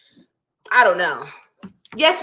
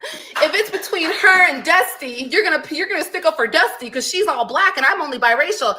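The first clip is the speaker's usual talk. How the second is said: mock whining; 5 semitones higher than usual. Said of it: "Did you guys wanna keep saying".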